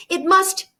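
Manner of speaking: loud, slow furious cut-off; Anna cuts her friend off in fury; raging. A narrator's reading. Anna snaps at her friend, furious and loud. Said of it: "She swerved on me with a rage".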